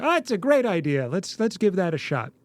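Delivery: mock-delighted dad response; acted keen parent. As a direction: pretend to welcome the child's idea. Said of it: "And I'm like".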